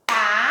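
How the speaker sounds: "partilha" as three spaced beats, par, ti, lha; clapped-out syllables. Shown as a demonstration. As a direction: count out the syllables of "partilha" with long pauses. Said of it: "poderia bater minha mãozinha". ("partilha" pausado, uma sílaba por palma)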